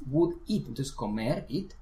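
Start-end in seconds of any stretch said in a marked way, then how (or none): 0.1-0.7 very slow "would eat", each word clear; teacher's slow "would eat"; slow demo. Shown as a demonstration. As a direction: spell out "would eat" slowly.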